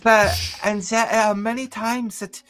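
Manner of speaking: put-on German aristocrat tone; haughty German accent. Shown as a demonstration. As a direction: look down on the lessers in a German accent. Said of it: "somebody who just enjoys looking down upon the lessers".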